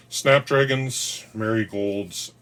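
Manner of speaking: drawn-out excited. Real, not acted. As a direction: draw out snapdragons slowly, high and loud. Names favourite flower with delight.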